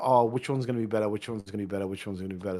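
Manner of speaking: fading inner thought. Retold or imitated. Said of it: "So I'll think about".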